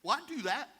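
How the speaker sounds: Carl's offer. Retold or imitated. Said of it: "He's like".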